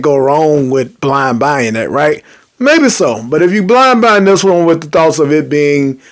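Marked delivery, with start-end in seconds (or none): 3.3-6.0 talking while chewing gum. Real, not acted. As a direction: gum in the mouth while speaking. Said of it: "and pardon my gum".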